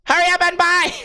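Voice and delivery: high, rushed clerk yelling at customers; mock clerk barking at shoppers; high mock shopkeeper yell; shrill store clerk. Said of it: "the chick's like".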